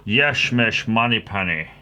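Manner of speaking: hammed-up Scots with every S turned to SH; bad Scottish accent. Secret agent greeting Miss Moneypenny, hammy Scottish accent. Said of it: "I'm not good at accents".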